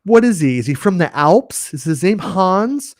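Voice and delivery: high-pitched, incredulous questioning; baffled imagined critics. Acted. Puzzled viewers react to the name Han Solo, incredulous. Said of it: "half of the people would be like".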